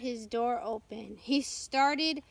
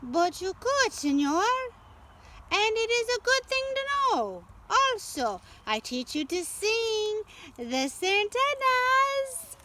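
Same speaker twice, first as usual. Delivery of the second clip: much higher and louder, rushing the offer; eager Lupe; 9 semitones higher, 5 dB louder than usual. A narrator's reading. Lupe eagerly urging Nate to learn knife throwing, high and loud. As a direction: press the deal excitedly, voice climbing high.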